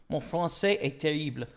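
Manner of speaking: English-accented French; foreign accent in french. Shown as a demonstration. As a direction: say it as a learner of French. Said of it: "You know, stuff like that".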